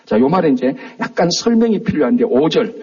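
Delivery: normal talking voice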